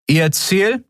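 high, brisk official voice; curt question. Acted. The officer demanding their destination, high and brisk. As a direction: demand it like a checkpoint guard.

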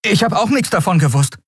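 a hint of a shy young boy; lightly voiced Miko. A narrator's reading. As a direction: confess it nervously.

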